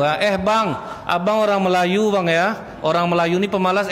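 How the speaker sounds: high, indignant warning; mock indignant wife. Wife warning her husband in a quarrel, mock indignant. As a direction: put the husband in his place.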